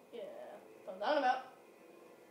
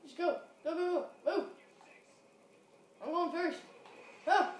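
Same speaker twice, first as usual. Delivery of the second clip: loud, high urgent shouts; urgent shouting; 4 semitones higher, 3 dB louder than usual. Real, not acted. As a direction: hurry the team along. Urging team forward.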